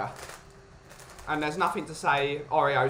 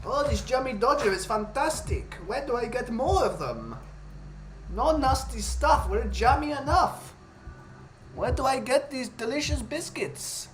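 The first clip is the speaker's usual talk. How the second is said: put-on higher Hasidic rabbi accent, raving about biscuits; pitched-up Hasidic rabbi accent, enthusing; 7 semitones higher than usual. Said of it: "That is my very Hasidic accent".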